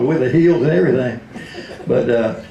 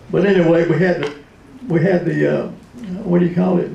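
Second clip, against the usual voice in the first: lightly higher, folksy Southern president; Bill Clinton impression; 4 semitones higher than usual. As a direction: chat along like a good-old-boy Arkansas president. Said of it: "he said".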